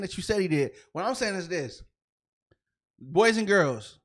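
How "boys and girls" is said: mock address to kids. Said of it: "I shouldn't be talking to y'all".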